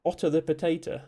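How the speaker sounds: English accent. Shown as a demonstration. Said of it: "If you say it as".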